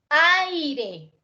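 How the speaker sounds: "Aire" drawn out, high on the first syllable; stress shown. Shown as a demonstration. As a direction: lean long on the "Ai" of "Aire". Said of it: "¿Dónde tiene la fuerza?". («Aire» alargado, con la fuerza en «Ai»)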